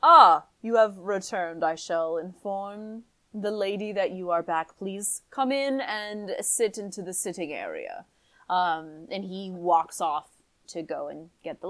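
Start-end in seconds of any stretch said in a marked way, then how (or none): 0.0-8.0 lightly voiced butler, polite and proper; a hint of a stiff servant greeting guests; formal butler. Butler welcoming the guests back, lightly formal voice.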